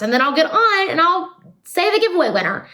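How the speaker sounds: imitating herself deciding brightly; mock sudden idea. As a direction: replay the lightbulb moment, half-acted. Retelling her own sudden decision.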